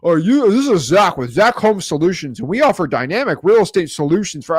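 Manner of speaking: lightly mocking a slick telemarketer pitch; salesy cold-call spiel. Mocking wholesalers who call sellers, a canned sales spiel. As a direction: rattle off a canned sales intro. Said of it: "go in this whole spiel".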